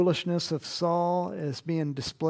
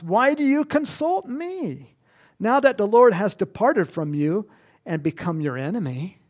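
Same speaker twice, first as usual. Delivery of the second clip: voicing Samuel; 3 semitones higher, 5 dB louder than usual. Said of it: "Samuel gives a response".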